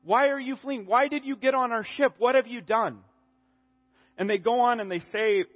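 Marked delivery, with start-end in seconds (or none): 0.0-3.0 higher-pitched, urgent retold questioning; alarmed sailors. Afraid sailors confronting Jonah in the storm, mildly alarmed. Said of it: "they're exceedingly afraid, and they're like".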